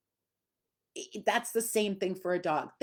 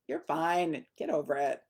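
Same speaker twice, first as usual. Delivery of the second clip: dismissive, breezy; 3 semitones lower than usual. Shown as a demonstration. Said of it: "make it a non-issue".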